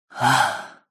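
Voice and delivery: short, soft exhale; sigh. Acted. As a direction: sigh quietly. Second sigh before battle.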